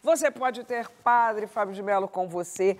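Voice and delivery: slow, deliberate presenter read; measured closing plug, drawn out; host's book plug. Real, not acted. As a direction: linger on key words as you recommend a book.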